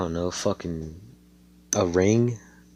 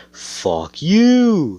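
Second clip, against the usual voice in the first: high, loud mock "Fuck you"; retelling a rude ring gesture, mock yell; 11 semitones higher, 7 dB louder than usual. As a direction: throw a hammed-up "Fuck you" at someone. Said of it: "he just, just says".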